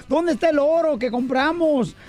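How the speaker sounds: a frantic mom searching for the gold; lightly voiced distressed mother calling her son; anguished mother. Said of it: "una mamá bien angustiada".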